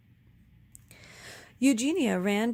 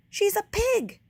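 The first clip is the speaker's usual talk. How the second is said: higher, louder scornful shout; 12 semitones higher, 5 dB louder than usual. A narrator's reading. Eugenia shouting at her sister about the pig, scornful shout. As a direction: bark it out with scorn. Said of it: "shouted Eugenia".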